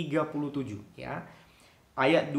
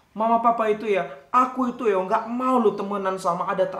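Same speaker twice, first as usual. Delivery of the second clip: put-on whiny child; 3 semitones higher, 5 dB louder than usual. Child complains to Kak Thomas.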